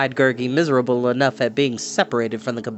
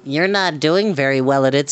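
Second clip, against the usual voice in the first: snapped. Acted. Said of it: "snapped Glue".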